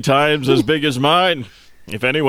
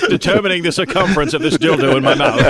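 laughing; 4 semitones higher, faster than usual. Real, not acted. Laughs through explanation.

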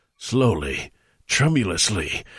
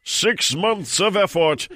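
announced brightly; 3 semitones higher than usual. Acted. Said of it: "announced brightly".

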